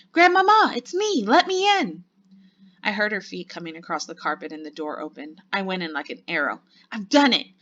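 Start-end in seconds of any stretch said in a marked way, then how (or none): 0.1-2.0 urgent, high-pitched calling; loud shout. A narrator's reading. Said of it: "I shouted as loudly as I possibly could". 6.9-7.5 loud, higher triumphant exclamation; excited cry. A narrator's reading. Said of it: "I cried, jumping up and down".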